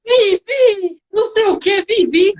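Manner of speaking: put-on high babbling toddler voice; child's voice. Boy calling the nanny's name. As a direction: imitate a little boy calling out. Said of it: "falou meu nome".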